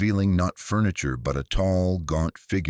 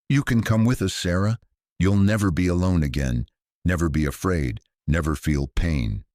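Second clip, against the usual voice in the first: quietly. Acted. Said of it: "Then quietly".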